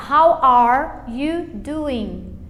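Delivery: slow "how are you doing", no hard final G; swallowed G. Shown as a demonstration. Teacher models the result, "doing" with swallowed G. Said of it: "A gente engole ela".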